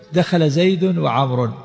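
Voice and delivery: slowed right down, each word laid out; slow example sentence. Shown as a demonstration. Teacher reading a grammar example to students, very slow. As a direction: spell the example out slowly for the class. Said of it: "إذا قلت".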